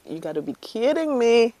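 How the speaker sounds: mock exclamation of disbelief; excited disbelief. Recalling first sight of the ivory color, mock disbelief. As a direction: exclaim "You gotta be kidding me" in excited disbelief. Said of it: "I was like".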